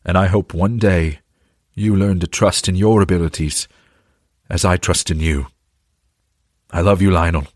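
tearful shout. Acted. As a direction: call out through tears, then soften. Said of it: "shouted as tears filled his eyes".

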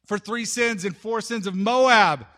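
forceful, building to a loud end; yelled proclamation. Retold or imitated. Amos denouncing Moab to the crowd, proclaiming. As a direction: declare it, punching MOAB. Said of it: "he goes on like this".

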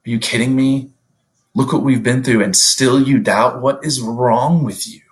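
mildly acted exasperated rebuke; mock incredulous reproach; imagined scoffing. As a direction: act out a disappointed scolding without shouting. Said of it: "We picture Jesus scoffing at us".

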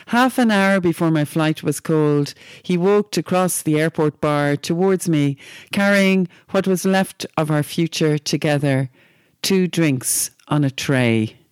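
measured, unhurried poem reading, slowing into the last line; slow, deliberate reading of a short poem. Acted. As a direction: read the poem aloud, letting the end land. Reads a short poem aloud.

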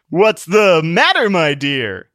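slow, caring suitor voice; concerned gentleman. A narrator's reading. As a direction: gently ask what is wrong.

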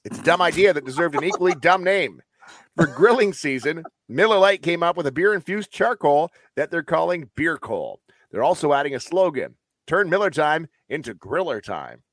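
lively, measured headline read; news read. Real, not acted. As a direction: read the item out like a host presenting a story. Reads out a beer news item.

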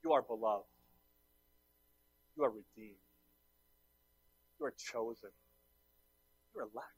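very soft affirmations with long pauses; hushed reassurance. Real, not acted. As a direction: let each affirmation land almost under your breath. Preacher tenderly reassures the congregation.

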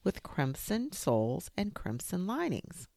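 put-on high, begging child's voice; pleading little boy. A narrator's reading. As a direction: beg the tiger in a small high voice. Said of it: "And Sean said".

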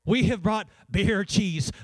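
slow, mock-scandalized gasp of the words; horrified church lady. Pastor mimics the old church lady, slow and mock-horrified. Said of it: "This lady looked horrified".

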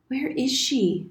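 lightly voiced young boy. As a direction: press gently but firmly for an answer. Boy presses for sister.

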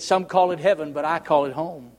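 soft, low reading of the song lyric; read softly. Shown as a demonstration. Preacher reading song lyrics to the congregation, softly. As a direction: read the song's words gently. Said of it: "read the words to you".

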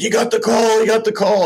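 stepdad yelling the news high and loud to the bar; excited shout. Retold or imitated. Stepdad shouting to a tavern crowd, overjoyed and loud. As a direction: shout it with joy over a crowd.

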